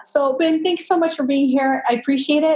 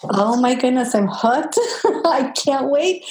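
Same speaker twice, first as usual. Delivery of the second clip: laughing; slower than usual. Real, not acted. Host delighted after story reading.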